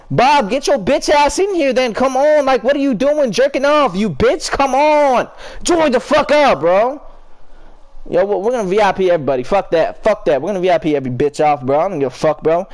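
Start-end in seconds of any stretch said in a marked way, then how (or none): 0.1-7.0 impatient yelling. Real, not acted. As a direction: call the friend in, fed up. Yelling Bob into the party.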